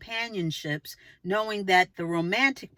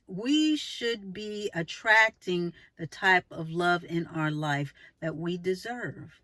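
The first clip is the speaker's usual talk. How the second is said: ordinary talk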